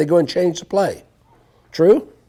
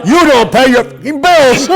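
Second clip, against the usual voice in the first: loud, higher mock Russian rant; angry Russian accent; 7 semitones higher, 5 dB louder than usual. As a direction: yell it in a broken Russian accent. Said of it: "He goes in there".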